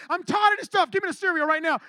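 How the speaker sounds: mildly hammed-up teenage huff; fed-up outburst. Preacher mimics teen storming off to the room, mock fed-up.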